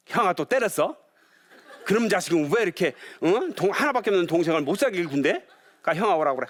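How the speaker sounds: laughing half-mock scold; mock scolding mom. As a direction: scold the kids while laughing. Mom scolding older brother.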